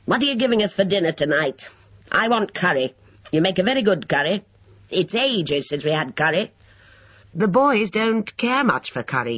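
put-on high, peevish old man's voice; querulous elderly demand. A narrator's reading. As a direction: pester for your favourite dinner in a high voice. Old man demanding his curry.

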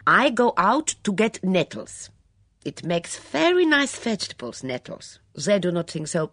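put-on a worked-up refugee cook spilling gossip, foreign accent; Mitzi, excitable foreign maid. Mitzi's foreign voice, long tale.

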